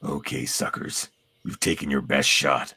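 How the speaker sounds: talking through a mouthful of water; water held in mouth. Pretend. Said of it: "so we should say it while we do this with our lips".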